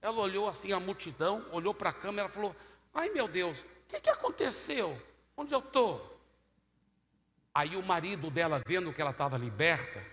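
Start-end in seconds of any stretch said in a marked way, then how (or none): 2.9-6.0 high, startled woman's voice; bewildered woman. Retold or imitated. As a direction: ask it dazed, in a higher voice. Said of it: "que eu ouvi a voz dela". (voz de mulher assustada, aguda)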